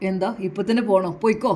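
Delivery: bitter, hurt telling-off; husband snaps at his wife in anger and sorrow; angry and sad. Acted. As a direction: send her away in wounded anger. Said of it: "അല്പം ദേഷ്യത്തോടെയും സങ്കടത്തോടെയാണ്".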